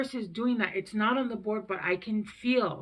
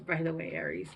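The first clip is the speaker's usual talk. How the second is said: whispered aside; 3 semitones lower, 3 dB quieter than usual. Real, not acted. Aside to listener in reading.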